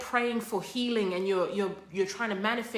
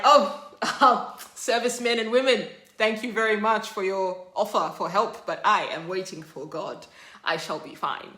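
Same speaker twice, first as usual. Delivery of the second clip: polite refusal through a laugh; 4 dB louder than usual. Retold or imitated. Stan thanking the rescuers, laughing. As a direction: thank them through a chuckle.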